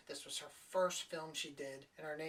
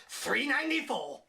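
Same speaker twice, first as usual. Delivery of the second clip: "Three ninety-four." said louder with a falling, resigned finish; flat repeat; 6 semitones higher, 6 dB louder than usual. Retold or imitated. Girl repeating the coat price, mock resigned. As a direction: state "Three ninety-four." as a dull confirmation. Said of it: "She's like".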